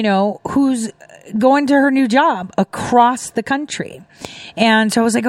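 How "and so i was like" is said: normal talking voice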